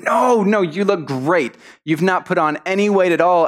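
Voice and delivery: lightly acted, over-polite denial; polite reassurance. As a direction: reassure a friend with a white lie. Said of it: "politely lies to everyone".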